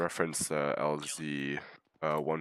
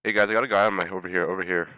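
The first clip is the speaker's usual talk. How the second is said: loud shout across the field; calling out; 4 semitones higher, 10 dB louder, faster than usual. Real, not acted. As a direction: yell to get attention. Calling teammates in a firefight.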